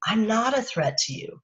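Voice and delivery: crouch down and calm them; gentle, unthreatening. Shown as a demonstration. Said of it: "It's like".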